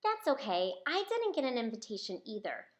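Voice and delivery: ordinary delivery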